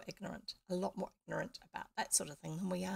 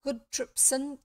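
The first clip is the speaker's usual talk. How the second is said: louder, thankful call; grateful call; 5 semitones higher, 6 dB louder, slower than usual. Acted. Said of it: "cried the prince".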